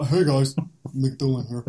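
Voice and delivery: lightly voiced YouTuber greeting; McDillon voice. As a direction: play a goofy vlogger character. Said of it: "do your McDillon voice".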